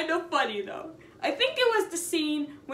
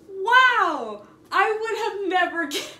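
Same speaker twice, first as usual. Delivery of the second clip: sarcastic wow; 6 semitones higher, 6 dB louder, slower than usual. Retold or imitated. Mocking the girl's loud remark.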